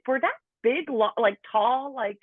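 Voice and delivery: high, disbelieving protest at the estimate; retelling her own shocked reaction to the doctor; incredulous. Retold or imitated. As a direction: squeak out the disbelief, pitch up.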